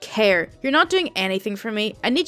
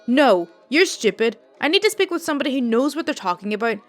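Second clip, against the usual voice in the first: louder, mock-furious old lady; angry customer; 5 dB louder than usual. Rude old customer insults the call center agent, loud and angry. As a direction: snap at the agent, lightly voiced old Italian woman. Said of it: "elderly Italian lady and clearly a smoker from her voice".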